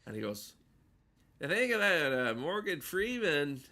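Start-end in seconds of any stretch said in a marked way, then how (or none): 1.4-3.6 a quick half-formed George Miller take; George Miller impression. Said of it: "this is my George Miller".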